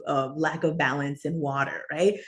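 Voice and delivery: ordinary talk, nothing marked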